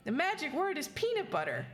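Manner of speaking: high, sweet haunted doll voice; eerie childlike whisper of a secret; too calm creepy doll. Acted. Doll voice answers.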